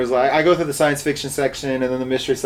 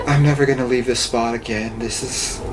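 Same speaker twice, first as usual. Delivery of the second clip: lightly voiced kid making a solemn vow; dramatic little boy; 5 semitones lower than usual. Imitating a boy refusing to budge, mock-dramatic. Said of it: "So dramatic".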